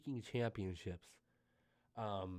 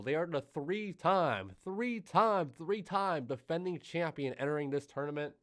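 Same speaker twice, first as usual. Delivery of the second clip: excited; 4 semitones higher, 4 dB louder, slower than usual. Real, not acted. Building hype on champion.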